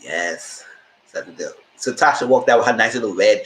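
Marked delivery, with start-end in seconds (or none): 0.0-1.5 soft, low ooh of approval; hushed approval. Retold or imitated. Viewer quietly urging Tasha to take the deal. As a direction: murmur your relief quietly. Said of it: "I was like".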